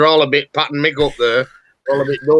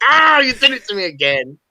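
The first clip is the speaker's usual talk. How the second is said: imitating a colleague; 8 semitones higher, 4 dB louder than usual. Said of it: "and they're like".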